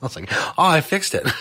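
amused, laughter breaking in; laughing at himself. Real, not acted. Host who thought it was fixed, laughing at himself. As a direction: chuckle through the admission. Laughing at his own failed fix.

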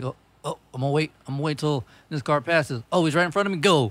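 a hint of a nervous little deer; voicing a deer. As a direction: play a dim deer making up its mind. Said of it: "They're like".

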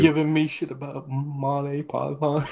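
talking with food in mouth; words round a bite of blueberries; mouth full. Real, not acted. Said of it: "I'm eating blueberries, so my excuse is I had food in my mouth".

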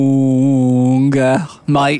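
put-on Australian accent. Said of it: "your accent".

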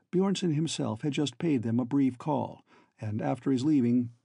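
plain reading voice

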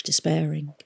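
usual speaking voice

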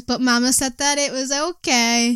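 lightly voiced, slow meme quote; a hint of a put-on voice; quoted meme line. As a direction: drawl it slowly like a meme. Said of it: "And then it says".

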